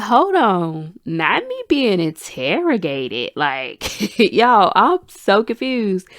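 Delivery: half-laughing, slow and baffled; laughing disbelief. Retold or imitated. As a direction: laugh off being interrogated. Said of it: "And I'm like".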